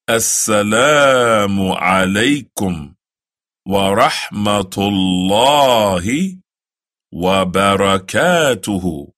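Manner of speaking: slow, careful Arabic greeting; the closing salaam, slow; slow recitation. Shown as a demonstration. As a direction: recite it slowly for the learner. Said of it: "some people saying".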